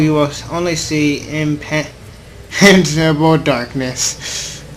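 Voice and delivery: slow, measured reading of the narration; story narration. Acted. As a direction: read it like an inner monologue, unhurried. Reads visual novel narration aloud.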